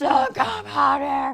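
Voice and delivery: loud scream from the gut. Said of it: "at my screaming at him".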